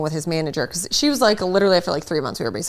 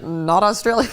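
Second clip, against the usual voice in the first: laughing quote; 3 semitones higher than usual. Retold or imitated. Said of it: "he was like".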